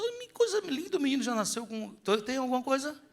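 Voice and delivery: high, sing-song cooing over a newborn; cooing new mother. Retold or imitated. Pastor imitates a mother cooing over her baby, high sing-song. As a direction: coo like a proud mother at the cradle.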